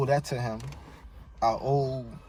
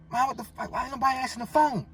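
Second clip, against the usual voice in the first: frustrated outburst; 12 semitones higher than usual. Retold or imitated. Frantic call to his mother.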